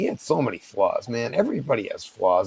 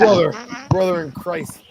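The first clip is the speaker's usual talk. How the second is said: raised, firm; 6 semitones higher, 5 dB louder than usual. Real, not acted. Firmly pushing back on a heckler.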